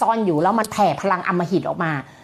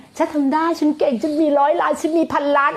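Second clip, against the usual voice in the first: confident affirmation; 6 semitones higher than usual. Retold or imitated. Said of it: "ต่อให้เราจูนจิต".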